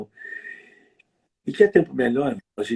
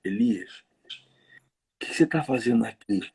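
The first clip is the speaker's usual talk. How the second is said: gentle God voice. Retold or imitated. The text's God speaking gently to Elias in the cave. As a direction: ask kindly, like a caring friend. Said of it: "ó como é que muda".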